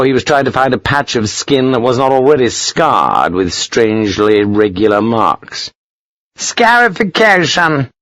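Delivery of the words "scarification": high, drawn-out bark. A narrator's reading. Colonel to visiting captain about his scarred arm, barked. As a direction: bark the word out in a raised pitch. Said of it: "Sir Henry barked to Hogan".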